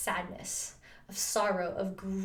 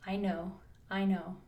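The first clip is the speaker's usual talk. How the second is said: soothing; 3 dB quieter than usual. Retold or imitated. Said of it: "so lovingly saying".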